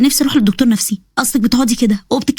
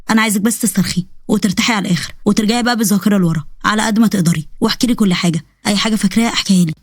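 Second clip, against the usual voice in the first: lower, calm doctor voice; 3 semitones lower than usual. Acted. Doctor calmly settling his nervous patient, lower voice.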